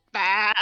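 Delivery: short low bleat; half-hearted goat bleat; sheep noise. Acted. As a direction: go bah like a sheep. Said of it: "I have to do an animal noise".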